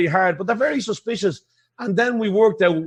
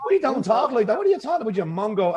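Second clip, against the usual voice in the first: high-pitched baffled retort; playfully scoffing, pitched up; mock incredulous; 4 semitones higher than usual. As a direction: act out disbelief at the fakers, voice leaping up. Acted retort to accent fakers.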